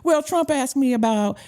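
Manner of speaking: lightly imitated Southern accent. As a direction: quote him with a touch of Southern lilt. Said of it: "he has this beautiful Southern accent".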